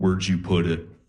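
put-on low killer voice. Acting out how she turned to you during a movie in bed, in a Buffalo Bill voice. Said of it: "why do you sound like Buffalo Bill?".

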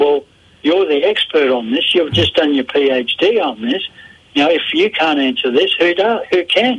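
usual speaking voice

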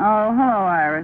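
low, glum, downcast sounding voice. Answering a phone call after a request for a television set was refused, sounding low. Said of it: "You sound low".

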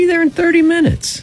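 voice goes really high. Answering how long the trip takes, voice going really high. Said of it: "your voice just went really high".

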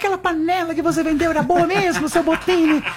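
put-on very high, thin little old lady voice. Retelling a lady customer's question to him as a salesman, imitating her thin voice. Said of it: "perguntava com essa voz fininha".

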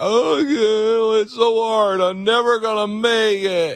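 high, slow whiny complaining, "yeah" stretched long. Mocking people who complain that life is hard: mock whiny voice. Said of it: "everybody is a whiner".

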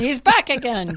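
loud, high-pitched shouting in a Scottish accent.

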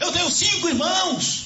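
pleading man's voice, tormented.

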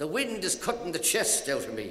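normal talking voice

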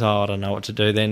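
normal talking voice

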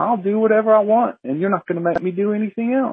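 nonchalant acted bear voice. Retelling a bear that ignored the speaker's stomping and clapping, voicing a mock-nonchalant bear. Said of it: "very nonchalantly".

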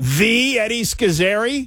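very high-pitched, sarcastic, scornful, disbelieving tone. Retelling how Sather, bothered in the middle of the night, answered, imitating someone being sarcastic. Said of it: "in a sarcastic way".

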